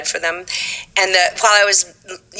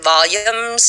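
put-on "Volumes" in a Texas accent; 3 semitones higher than usual. Young singer reading the lyric to auditioners, Texas accent. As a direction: say "Volumes" the Texan way. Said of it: "I said it in Texas accent".

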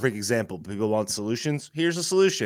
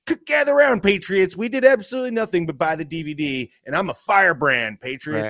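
mock rally speech; 4 semitones higher than usual. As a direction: rouse the patriots like a showman. Mocking politician rallying supporters.

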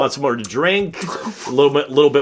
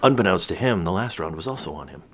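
stage whisper; 8 semitones lower, 6 dB quieter than usual. Acted. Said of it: "That was a stage whisper".

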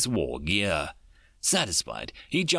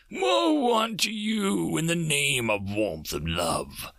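shrieking; 7 semitones higher than usual. Acted. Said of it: "Dream suddenly shrieked".

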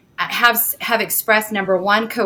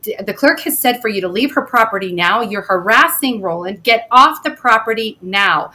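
firm, mildly raised retelling of a yelled order; retold yell; 3 dB louder than usual. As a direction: re-enact ordering him off, punching key words. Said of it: "I'm yelling at Detective Strew".

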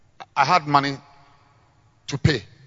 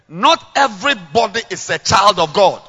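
preaching; 6 semitones higher, 10 dB louder than usual. Shown as a demonstration. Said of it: "Let's say together".

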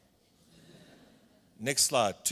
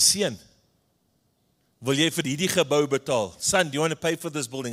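put-on old tannie. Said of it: "This old tannie comes to me and says".

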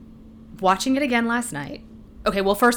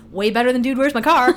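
excited; 4 semitones higher, 6 dB louder than usual. Retold or imitated. Retelling excited thought leaving theater.

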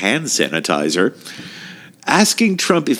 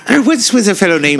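higher, sing-song bedtime voice; kids' storyteller voice; 8 semitones higher, 3 dB louder than usual. Pretend. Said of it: "the voice you use with the kids".

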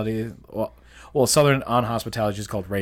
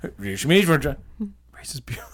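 very slow imitated whisper; mock-secretive whisper, stretched out; 2 semitones higher, much slower than usual. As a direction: whisper it slowly, imitating a friend. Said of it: "Like, you just whisper".

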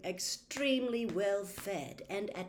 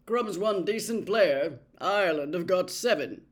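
short; 9 dB louder than usual. A narrator's reading. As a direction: cut him off, curtly. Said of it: "said Charlie shortly".

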